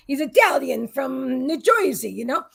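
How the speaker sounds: lightly put-on New Jersey Italian accent; terrible New Jersey Italian accent. Host imitating pizza-loving friend John, bad New Jersey Italian accent. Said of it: "terrible accent I just did".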